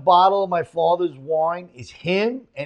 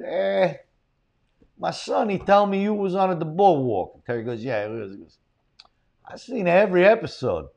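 lightly voiced Italian-American father; a hint of the old Italian dad; Italian dad accent. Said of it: "He does a great Italian accent".

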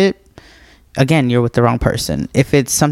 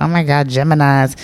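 mock gushing crowd. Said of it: "everybody's talking about".

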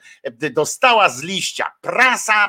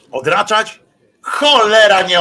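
sudden loud, pitched-up curse; frustrated curse; 6 semitones higher, 8 dB louder than usual. Real, not acted. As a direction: blurt it out in real annoyance. Frustrated outburst at vote result. (głośne, poirytowane przekleństwo)

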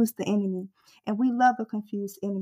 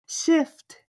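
preached shout; 6 semitones higher, 3 dB louder than usual. Real, not acted. Preacher's rising exhortation.

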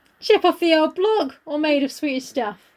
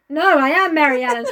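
laughing insistence; 4 dB louder than usual. Acted. Mary insists, acted quarrel.

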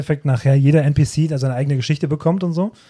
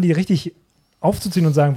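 usual speaking voice

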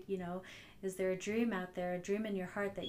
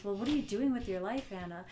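mock scolding, a bit louder; harsh tone; 5 dB louder than usual. Speaker showing how her inner critic sounded, scolding. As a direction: needle yourself with a critical edge. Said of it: "the tone has everything to do with it".

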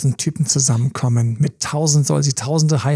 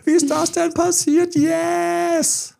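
much higher, fast, triumphant whoop; jubilant shout; 12 semitones higher than usual. Retold or imitated. Celebrating aloud in his living room, high and triumphant. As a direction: cry out in delight at your own progress. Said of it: "richtig laut gesagt habe".

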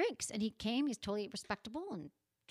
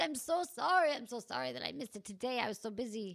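a hint of an Italian accent; lightly imitated Italian-accented apology; 3 semitones higher than usual. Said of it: "He's Italian".

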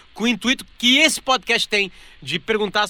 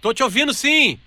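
raised, higher voice over a bad line; shouting on bad phone line; 6 semitones higher than usual. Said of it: "a ligação tá ruim".

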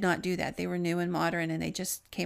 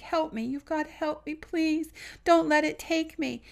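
much higher, desperate begging voice; retold tearful pleading; 8 semitones higher than usual. Dead friend begging young man for help, tearful. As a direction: imitate a crying plea for rescue. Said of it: "he starts crying".

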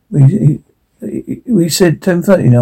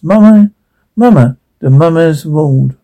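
dazed calling. Acted. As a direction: call out for mama half-conscious. Dazed man calls for mother.

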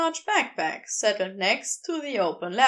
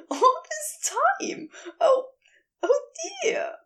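higher, heated fussy angel voice; Aziraphale, wild. A narrator's reading. Angel ranting at the geologist, high and heated. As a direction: raise the pitch and let him rant.

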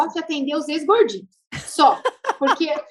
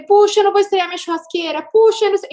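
higher, louder fretting exclamation; mock overwhelmed; 7 semitones higher, 5 dB louder, faster than usual. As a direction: fuss about the grill, half joking.

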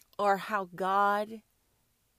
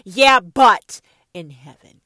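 slow, loud sneering mimic of a doubter; loud slow mock excuse; mocking a Christian; 2 semitones lower, 15 dB louder, slower than usual. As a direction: drag it out, loud and scornful.

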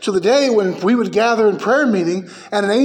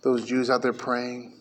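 mock gushing pastors; 8 semitones lower, 9 dB quieter than usual. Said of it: "pastors look at the Wailing Wall and go".

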